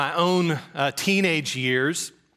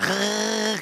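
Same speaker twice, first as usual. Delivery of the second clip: buzzing engine sputter; imitated car noise; 5 semitones higher than usual. Man recalls going mudding in his car, imitated engine noise. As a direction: mimic a little car revving in mud.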